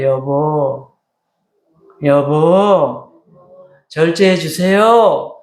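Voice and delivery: slow, soft, gentle Seoul accent.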